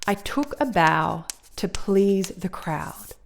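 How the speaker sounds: slow, "took", "bow", "please", "crowd" stressed, the small words light; natural emphasis. Shown as a demonstration. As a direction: speak the lyric slowly, leaning on "took", "bow", "please", "crowd". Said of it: "certain words in there that contain natural emphasis".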